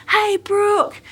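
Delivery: retold scream. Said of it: "she's screaming".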